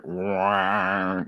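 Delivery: low, soft droning "wah"; imitated sound effect. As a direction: mimic the movie's eerie noise, low and drawn out. Imitates a sound heard in film.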